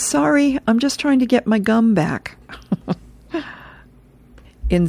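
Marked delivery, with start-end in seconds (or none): 0.0-2.4 lightly voiced boy, pitched up; a higher, childlike apology, lightly acted; apologetic little grandson. Little grandson apologizing to grandma, higher-pitched boyish voice.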